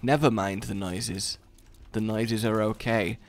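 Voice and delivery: low, halting calm; uneasy reassurance. Real, not acted. Player soothing after computer noises, low halting reassurance. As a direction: reassure in short, careful pieces.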